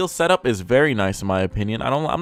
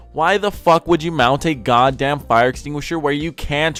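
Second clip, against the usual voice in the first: over-the-top rant; 4 semitones higher, slower than usual. Real, not acted. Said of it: "I'm getting a little bit too over the top".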